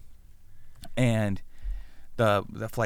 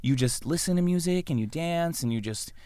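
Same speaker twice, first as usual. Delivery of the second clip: condescending, as if it's all pointless; belittling. Acted. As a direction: talk down to them, mildly exasperated. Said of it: "starts belittling her".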